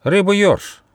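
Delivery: high-pitched, tentative guess; hesitant platypus voice; uncertain. Acted. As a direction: venture it unsure of yourself. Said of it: "неуверенно сказал утконос".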